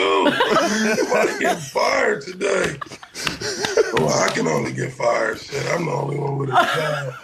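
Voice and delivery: raspy, worn-out voice; hoarse voice. Real, not acted. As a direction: voice nearly gone. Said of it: "and your voice is gone".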